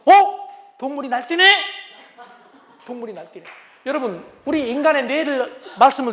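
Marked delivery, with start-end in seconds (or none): 0.1-1.4 high amused sneer; inner mockery. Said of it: "마음속으로". 2.9-3.4 muttered to self. Retold or imitated. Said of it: "마음속으로".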